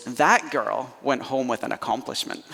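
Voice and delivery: mock scolding mum, rising to a sharp finish; mum's knockdown. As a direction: cut the proud kid down to size. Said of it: "She goes".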